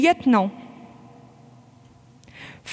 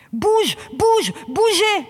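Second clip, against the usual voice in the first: officer yelling as protesters charge; urgent shout; 5 semitones higher, slower than usual. Real, not acted. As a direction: get them moving now. Shouting during a riot charge.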